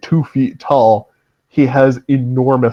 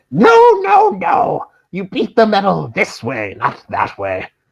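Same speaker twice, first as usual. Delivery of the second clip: shrill gnome voice yelling, pitch swooping; 8 semitones higher than usual. Game master describing the forge, voicing a gnome shouting over the din: shrill shouting gnome voice. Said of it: "shrill gnome voice shouting over the din".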